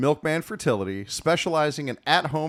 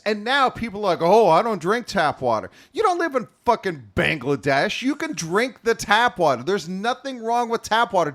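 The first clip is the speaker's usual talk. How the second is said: mock rant; 2 semitones higher than usual. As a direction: rant it with fake outrage. Rant about tap water.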